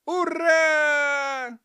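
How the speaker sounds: put-on loud, high boys' hooray; cheering. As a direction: whoop with joy. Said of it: "заликовали парни".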